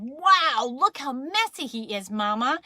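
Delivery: mildly hammed-up fatherly amazement; amazed Daddy. Daddy tells Mama about the mess, mildly amazed. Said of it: "And Daddy said".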